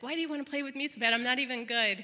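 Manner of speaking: rushed, insistent retold question; fast, pleading stall. Mom stalling her son, rushed pleading. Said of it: "I'm delaying the inevitable here".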